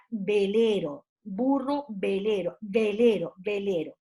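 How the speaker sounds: "velero" y "burro" marcando la consonante inicial, como para que le miren la boca; dictado articulado. Retold or imitated. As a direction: imita a una maestra dictando "velero" y "burro", palabra por palabra. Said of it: "uno le miraba la boca a la profesora". ("velero" en tono más grave, cada palabra separada y cayendo al final)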